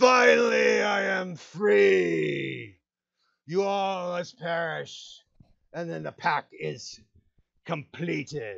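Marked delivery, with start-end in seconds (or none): 0.0-5.2 high, slow, deliberate, drawn-out monster voice. Narrating a game, giving the creature that stepped through the wall its words, voicing the creature. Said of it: "Yeah, it does".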